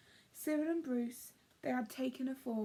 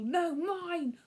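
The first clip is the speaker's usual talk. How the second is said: raised, louder squirrel holler; 5 semitones higher, 5 dB louder than usual. Acted. Bruce hollering back at Cyril over the cone. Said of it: "hollered Bruce".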